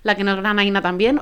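talking around something in the mouth; words muffled by something in the mouth; mouth full. Real, not acted. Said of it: "Hoy tengo algo en la boca pa que no me deja hablar bien".

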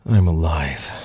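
acted mild groan. A narrator's reading. Woman waking in pain answers her computer, mildly groaning. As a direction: groan it out, coming round in pain. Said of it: "she groaned".

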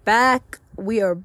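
drawn-out, punchy show-host return; a hint of hammy host, hitting "back"; talk show host. Real, not acted. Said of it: "like a talk show host".

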